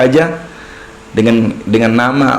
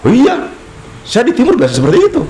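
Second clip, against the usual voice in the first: mock Batak man; 9 semitones higher than usual. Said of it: "Keras sekali kok kau ngomong". (orang Batak yang ngomongnya agak keras dan tinggi, dibuat-buat)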